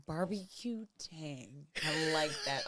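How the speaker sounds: low, slow, soft southern drawl; southern accent. Shown as a demonstration. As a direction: try out a southern American accent. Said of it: "Do a southern accent".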